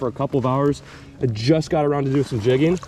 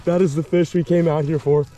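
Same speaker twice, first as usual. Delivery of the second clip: excited; 5 semitones higher than usual. Real, not acted. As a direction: whoop with pure joy. Landing trophy fish, celebrating.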